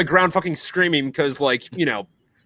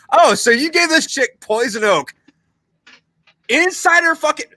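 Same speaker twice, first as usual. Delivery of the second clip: retold disbelief; 12 semitones higher, 5 dB louder than usual. Retold outraged reaction.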